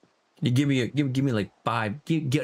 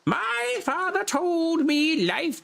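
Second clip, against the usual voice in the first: mopey quote; 8 semitones higher, slower than usual. Retold or imitated. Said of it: "He's like".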